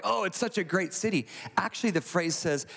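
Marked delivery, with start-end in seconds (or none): 0.0-1.3 higher, mildly gushing mock praise; mock puffing up. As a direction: lightly imitate empty flattery. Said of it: "just puffing up Nineveh".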